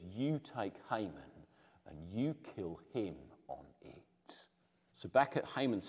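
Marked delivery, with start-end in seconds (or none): 0.0-4.5 cold quiet order. Acted. King's quiet death sentence.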